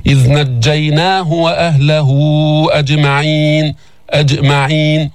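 measured recitation of the verse; Quran recitation. Shown as a demonstration. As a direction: chant with clear qalqala on the jiim. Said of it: "teacher recites verse".

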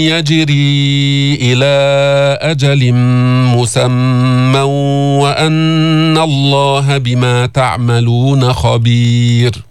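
slow, drawn-out tajweed chant; Quran recitation. Shown as a demonstration. Teacher reciting to students in slow chant. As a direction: recite each word long and measured.

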